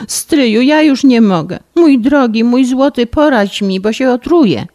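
wyżej i głośniej, rozżalona dziewczyna; zapłakana bratanica błaga stryja o radę; płaczliwa skarga. Acted. (płaczliwy, rozżalony głos)

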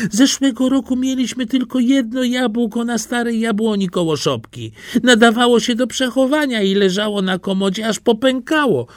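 put-on high, fast voice of the old mother; mother's words, quoted by her son, in a high voice. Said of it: "mówiła matka".

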